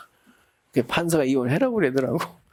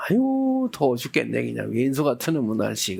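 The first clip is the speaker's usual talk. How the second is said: grumbling about heat; 4 semitones lower than usual. Retold or imitated. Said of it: "막 몸이 욕을 한다니까".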